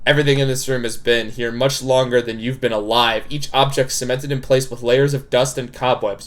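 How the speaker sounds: measured, even visual novel narration; story narration. A narrator's reading. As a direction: read the scene out evenly. Reads the game narration.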